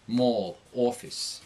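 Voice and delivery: thick "or" sound in "mall, office"; New York accent, rounded "aw" in "mall" and "office". Shown as a demonstration. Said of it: "it's an or sound".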